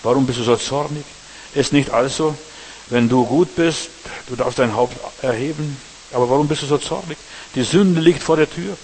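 mild stern God voice; God rebuking Cain. Acted. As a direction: ask it as a grieved father would. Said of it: "da sprach der Herr zu Kain".

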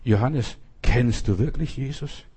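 understated, searching question; Holy Spirit speaking. Retold or imitated. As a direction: ask it gently, as a retold divine question. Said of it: "spricht der Heilige Geist zu mir".

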